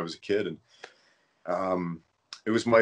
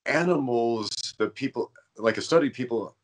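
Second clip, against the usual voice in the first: stuttering; 3 semitones higher than usual. Real, not acted. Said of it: "I'm stuttering a lot today".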